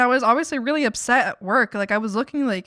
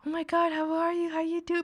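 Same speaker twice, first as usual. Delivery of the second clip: excited greeting; 7 semitones higher, 4 dB louder than usual. Retold or imitated. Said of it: "She's like".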